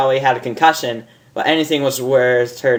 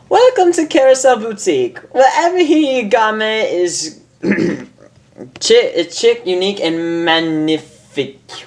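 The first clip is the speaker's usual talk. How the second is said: grand shopkeeper welcome; 8 semitones higher than usual. Acted. Boutique owner welcoming a customer, theatrical high voice. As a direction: greet like a fancy designer.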